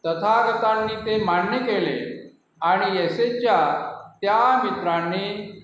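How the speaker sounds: measured, emphatic narration in set phrases; projected scripture-story recitation; formal story reading. A narrator's reading. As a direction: read it out deliberately, with pauses between phrases. Reads the story aloud formally.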